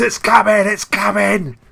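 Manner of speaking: very high, raw, rough bellowing cry. Voicing a rat character during a tabletop game: bellowing.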